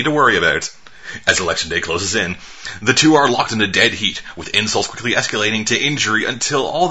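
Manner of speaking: measured trailer-copy read; reading synopsis aloud. Real, not acted. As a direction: read it out like a press blurb. Reads out a film synopsis.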